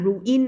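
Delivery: "ruin" split into two clear syllables, roo-IN; wrong reading of ruin. Shown as a demonstration. Teacher warning students, "ruin" misread as roo-in. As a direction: say "ruin" with a full separate "in". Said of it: "ไม่อ่าน ruin นะคะ".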